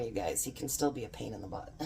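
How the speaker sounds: teasing aside about the husband; conspiratorial aside. Acted. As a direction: lean in and confide the joke quickly.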